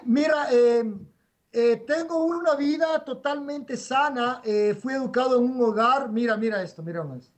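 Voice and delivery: boca llena; hablando mientras mastica. Real, not acted. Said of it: "Estoy comiendo". (hablando con la boca llena)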